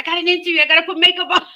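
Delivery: high, loud mock fluster; worked up, voice pitched well up; retold frantic rush. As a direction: reenact scrambling to get ready. Retelling her own frantic rush.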